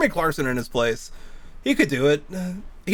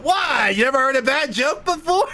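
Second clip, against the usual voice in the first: indignant retort; 8 semitones higher than usual. Retold or imitated. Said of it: "he stood up and he went".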